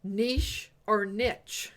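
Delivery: "niche" said slowly, once as "neesh" and once as "nitch"; two pronunciations. Shown as a demonstration. Host showing both ways to say "niche", slowly. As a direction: slowly set "niche" against "niche". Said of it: "when you start talking about".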